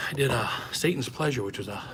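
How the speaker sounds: breathless after running upstairs; out of breath. Real, not acted. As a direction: talk while catching your breath. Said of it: "Sorry, I'm out of breath".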